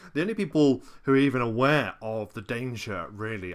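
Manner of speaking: normal talking voice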